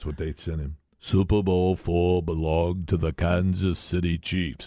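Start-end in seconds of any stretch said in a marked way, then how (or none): 1.0-4.7 voice-of-god impression delivery. Recalling the man who got letters at NFL Films, do a voice of God impression. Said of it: "voice of God".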